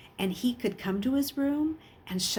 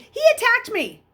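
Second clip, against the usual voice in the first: much higher, loud whining protest; whiny protest; 9 dB louder than usual. A narrator's reading. Bully whining to the teacher, protesting. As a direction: wheedle and plead your innocence. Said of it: "Raleigh protested".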